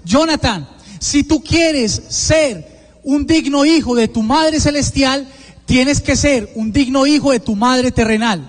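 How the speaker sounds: lightly voiced tender Virgin Mary, slow; a hint of a gentle motherly voice, unhurried; feminine voice of Mary. The Virgin Mary counselling Jonathan in prayer, slow and gentle. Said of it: "esa voz femenina que me habla".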